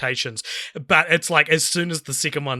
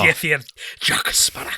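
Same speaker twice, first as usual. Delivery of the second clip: whisper. Retold or imitated. Echoing the Davy Jones line.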